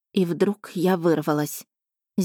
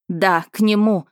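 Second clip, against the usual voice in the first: mildly louder defiant cry; defiant shout; 4 dB louder than usual. Acted. Wife defying her jealous dragon husband, mild shout. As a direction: throw it back at him in defiance. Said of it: "кричала я".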